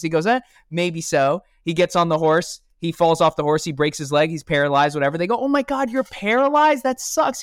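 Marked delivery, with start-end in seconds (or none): 0.3-1.4 slow, drawn-out indifferent eh; imitating a calm farmer, slowly; slow unbothered shrug. 5.4-7.4 much higher, gasping neighbour voice; hammed-up imitation of shocked neighbours; mock shock. Neighbours gasp at paralysis.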